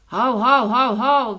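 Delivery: loud, drawn-out booming woofs; big echo barking. A narrator's reading. The big forest echo answers the dog, loud slow barking. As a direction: bark slowly and loudly like a big forest echo.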